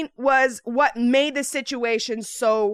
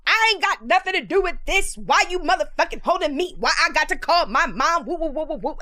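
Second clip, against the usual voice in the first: high-pitched mock ranting; hammed-up teenage outburst; girl going off; 5 semitones higher than usual. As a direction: rattle off an imitated indignant tirade. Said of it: "The other girl going off".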